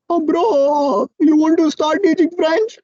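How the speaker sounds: drowsy, high, dragged out; lazy half-asleep mumble; sleepy voice. Retold or imitated. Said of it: "he was in a very sleepy voice".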